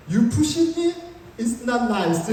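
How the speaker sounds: a shaky attempt at a tough rebuke; nervous confrontation. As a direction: confront him, voice tight with nerves. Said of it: "너무 긴장하니까".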